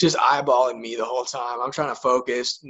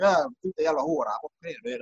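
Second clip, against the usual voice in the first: mock fake Swedish; 4 semitones higher, 3 dB quieter than usual. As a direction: fake foreign babble that starts high, then trails off. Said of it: "random sounds that sounded like Swedish".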